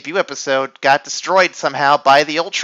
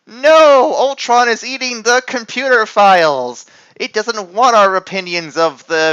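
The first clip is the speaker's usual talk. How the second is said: high, loud cartoon cry; hammed-up scream; 6 semitones higher, 5 dB louder than usual. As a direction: shriek it like a B-movie hero.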